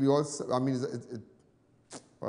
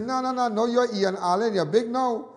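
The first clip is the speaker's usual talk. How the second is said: high and loud gushing friend; lightly voiced impression of a singer; 9 semitones higher, 7 dB louder than usual. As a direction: gush like an excited old friend. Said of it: "She said".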